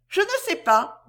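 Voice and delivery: put-on high timid little girl. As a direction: answer like a shy child. Little sister answers.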